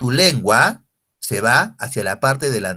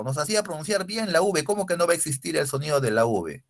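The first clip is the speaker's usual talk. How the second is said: protesting student; 3 semitones higher, 4 dB quieter, faster than usual. Acted.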